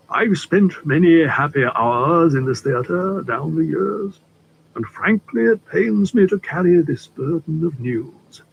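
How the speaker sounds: a hint of a courtly older gentleman, unhurried; polite stranger easing into business, lightly played; lightly voiced suave Litchfield. Litchfield laments the theatre.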